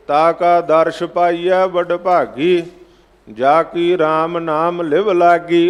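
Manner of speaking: drawn-out, measured chant of the verse; slow recited Gurbani; slow scripture recitation. Acted. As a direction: intone each word slowly, devoutly. Recites scripture line in katha.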